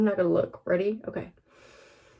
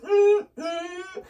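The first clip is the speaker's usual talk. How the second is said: Patrick sound; 9 semitones higher, 5 dB louder than usual. Real, not acted. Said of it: "I just sounded like Patrick from SpongeBob".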